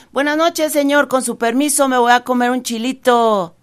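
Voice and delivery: high, sweet little rabbit voice, overly courteous; a sly rabbit being charmingly polite; rabbit's cheeky polite greeting. Acted. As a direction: conejo educado y pícaro, voz aguda.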